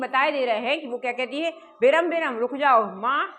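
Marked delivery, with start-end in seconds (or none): 1.8-3.3 lightly acted scolding, voice raised; slightly angry. Wife stopping husband from touching the laddus, slightly angry. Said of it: "थोड़ा सा गुस्सा दिखाती हुई".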